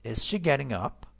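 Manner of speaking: slow question lifting on "up"; rising intonation. Shown as a demonstration. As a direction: model it slowly, voice climbing on "up". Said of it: "Rising intonation".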